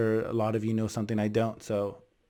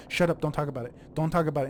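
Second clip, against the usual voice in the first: louder, retold order to drop it; annoyed shushing; 2 semitones higher, 5 dB louder, faster than usual. Husband silencing his wife about the presence, annoyed. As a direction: imitate a dad cutting the subject off. Dad silencing mom in quarrel.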